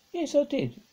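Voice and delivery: put-on boy snapping back at his sister, angry. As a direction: snap it back defensively. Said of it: "said Peter angrily".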